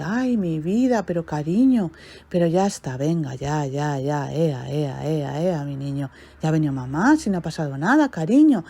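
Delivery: calm the little one down gently; mother comforting her crying baby on the floor; soothing mother. Acted.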